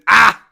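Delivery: sudden loud yell of delight; real burst of hype; excited shout. Real, not acted. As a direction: blurt a loud cry. Steal, burst out.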